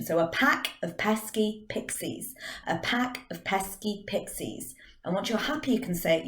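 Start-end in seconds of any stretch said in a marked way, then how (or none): 0.2-4.7 slow, separated, carefully articulated words; deliberate tongue-twister demo; clear diction. Shown as a demonstration. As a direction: move the mouth round every word, unhurried. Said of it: "you're really using clear diction".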